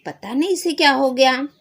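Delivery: loud, high puzzled dad; a father explaining to the doctor; worried father. Acted. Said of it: "पिताजी क्या बोलते हैं". (परेशान पिता)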